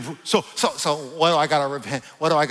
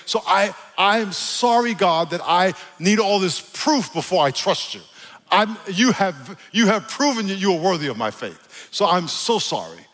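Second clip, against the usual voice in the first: higher-pitched, earnest prayer; fervent repentance prayer; 7 semitones higher, 3 dB louder than usual. Shown as a demonstration. Preacher apologizing to God for needing proof, fervent prayer. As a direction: plead it upward to God.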